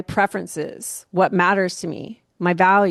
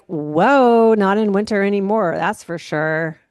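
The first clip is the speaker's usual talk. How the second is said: loud, rushed whoa of relief; excited exclamation; 2 semitones higher, 5 dB louder than usual. Retold or imitated. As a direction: burst out with relieved delight.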